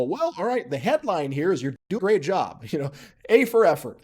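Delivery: hammed-up tactful encouragement with a chuckle; mock diplomatic praise. Speaker softening real opinion to someone, mock diplomatic praise.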